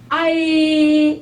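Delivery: 아이 glided fast, high, rising; 아 sliding quickly into 이. Shown as a demonstration. Teacher showing the fast 아이 glide. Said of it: "이거를 빠르게".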